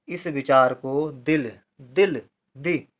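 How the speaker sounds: slow, syllable by syllable dictation. Shown as a demonstration. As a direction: spell it out slowly for the class. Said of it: "आप ध्यान दें". (धीरे-धीरे शब्द लिखवाना)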